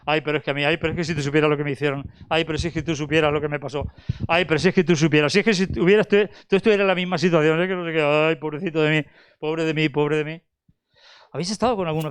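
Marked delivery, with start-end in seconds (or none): 0.0-10.4 imitating a lifelong complainer, lightly; whiny complainer. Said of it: "Siempre va con el run run". (queja lastimera imitada, rápida y suave)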